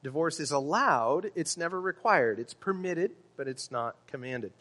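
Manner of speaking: "allowed" and "permitted" lifted, set against "required" and "commanded"; stressed contrast. Real, not acted. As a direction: stress "allowed" and "never", then drop on "not commanded". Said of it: "we need to stress that".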